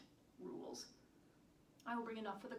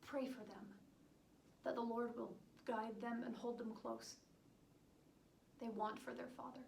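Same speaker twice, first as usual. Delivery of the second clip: tender parting plea; 6 dB quieter than usual. Acted. Tender parting words to husband.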